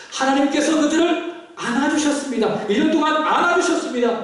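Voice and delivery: impassioned sermon voice; fervent preaching. Real, not acted. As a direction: declare it firmly from the pulpit. Preaches at full force to congregation.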